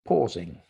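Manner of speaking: PAUSING set apart by silence; deliberate pause. Shown as a demonstration. Teacher demonstrating pauses to seminar audience, PAUSING isolated by silence. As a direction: say PAUSING alone, then leave a pause. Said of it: "I just paused".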